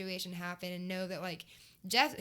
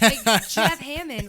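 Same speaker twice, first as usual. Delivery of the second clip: very loud, slow, stretched with awe; drawn-out rave; 3 semitones higher, 15 dB louder, much slower than usual. Real, not acted. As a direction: savor the name like a hero's. Raving about Jeff Hammond.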